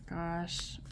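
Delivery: soft sigh, then a quiet gosh; tired sigh over a heavy reading; weary sigh. Real, not acted. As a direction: sigh and let the gosh drop away. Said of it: "my sigh says everything".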